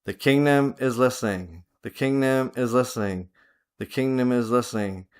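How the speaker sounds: low-key, softened repeated affirmation; inward speech. Shown as a demonstration. Teacher showing listeners how to speak inwardly, hushed inward voice. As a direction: speak it softly, as if to yourself. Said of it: "Then speak inwardly".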